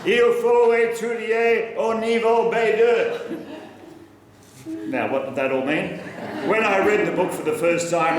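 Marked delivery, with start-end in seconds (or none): 0.0-3.4 slow, higher, insistent teacher voice with a laugh; Marie-Laure's voice. Retold or imitated. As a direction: play a pushy teacher, laughing. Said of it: "j'ai entendu la voix de Marie-Laure".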